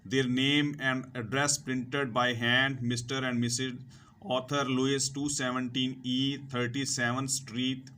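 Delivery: slow, deliberate reading to students; careful classroom read-aloud; slow textbook reading. Acted. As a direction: read each word out slowly for learners. Reads textbook English slowly to students.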